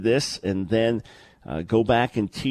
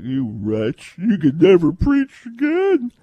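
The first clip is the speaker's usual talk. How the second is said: harsh self-condemnation; 7 semitones higher, 5 dB louder than usual. Retold or imitated. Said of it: "I don't live like".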